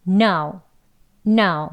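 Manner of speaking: "No" with a strong n and a very weak u glide. Shown as a demonstration. Teacher models native "no". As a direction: hit the n, barely sound the oo. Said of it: "앞에가 no, 조금 세게 하고".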